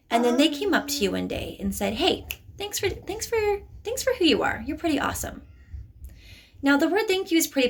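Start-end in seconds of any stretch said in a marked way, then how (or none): 1.9-5.4 voicing the bully. The bully suddenly thanking you.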